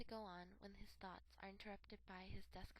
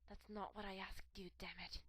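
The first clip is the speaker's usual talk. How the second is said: louder, biting retort; angry snap; 6 dB louder than usual. A narrator's reading. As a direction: snap back at him. Father snaps at kidnapper.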